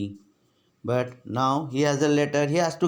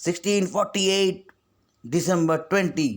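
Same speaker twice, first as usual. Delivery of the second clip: a lightly voiced screeching schoolboy; screeched; 5 semitones higher than usual. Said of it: "shot up and screeched".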